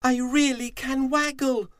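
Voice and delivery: high, loud joyful bee; can't believe he did it; delighted little bee; excited cry. A narrator's reading. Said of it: "Fuzzy cried".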